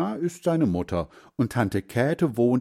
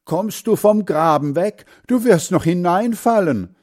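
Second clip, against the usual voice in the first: louder, higher grandfather calling out; calling from afar; 9 semitones higher, 7 dB louder than usual. A narrator's reading. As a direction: shout a warning across the yard. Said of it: "Er ruft schon von weitem".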